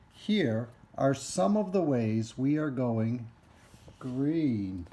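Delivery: slightly slowed, emphatic picture-book reading; reading to children. Acted. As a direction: read it out clearly for young listeners.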